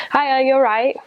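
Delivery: a returned missionary mimicking a Yorkshire street greeting in a light Yorkshire accent; British greeting. Imitating a Yorkshire hello in a light Yorkshire accent.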